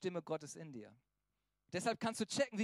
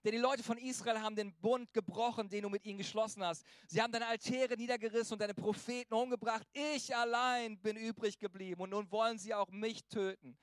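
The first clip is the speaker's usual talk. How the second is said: louder, higher, hammed-up lament of Elijah; despairing Elijah; 3 semitones higher, 4 dB louder than usual. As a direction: play Elijah pouring out his misery to God. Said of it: "Also jetzt so voll den Blues".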